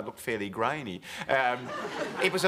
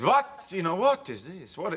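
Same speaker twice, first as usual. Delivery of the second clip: sharp, high "What?" in a put-on Russian voice; startled Russian dancer; 5 semitones higher, slower than usual. Retold ballet star barking at the crew, imitating Nureyev.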